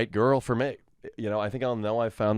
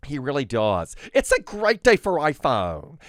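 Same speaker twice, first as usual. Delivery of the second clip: Tim Cook; 3 semitones higher than usual. Retold or imitated. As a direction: sell the product like a stage announcement. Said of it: "Tim, as in Tim Cook".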